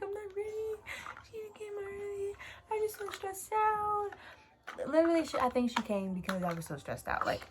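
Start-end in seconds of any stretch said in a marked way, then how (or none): 0.0-3.5 retold crying. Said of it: "bawled my eyes".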